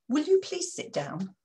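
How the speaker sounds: mildly let-down request; disappointed plea. Shown as a demonstration. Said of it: "slightly disappointed".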